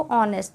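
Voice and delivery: ऑनेस्ट said with a silent h, starting on the vowel "ऑ". Shown as a demonstration. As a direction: say ऑनेस्ट as "onest", dropping the h. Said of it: "बोलते कैसे हैं इसको". (ऑनेस्ट में h silent, "ऑ" से शुरू)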